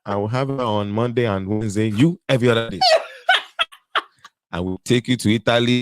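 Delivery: put-on African-accented suitor making promises; playful put-on African accent. Playing the married African suitor.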